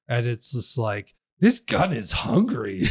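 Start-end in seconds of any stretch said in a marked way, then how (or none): 1.4-2.8 mock game heroine. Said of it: "two lines she says".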